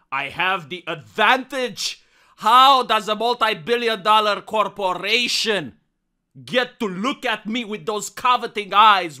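outraged, theatrical demands; hammy stage actor. Acted. Character rant at Home Depot.

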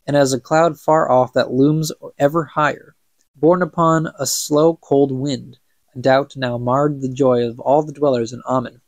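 measured storybook reading, evenly told; story narration. A narrator's reading. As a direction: read it like an old legend. Reads the book aloud.

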